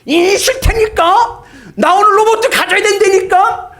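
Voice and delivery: very high, loud screaming tantrum; tantrum child. Acted. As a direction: throw a full toddler tantrum. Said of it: "애가 막 울면서 마트 바닥에 누워가지고". (마트 바닥에 누워 떼쓰는 아이)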